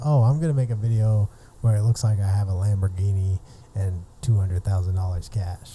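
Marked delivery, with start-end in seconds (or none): none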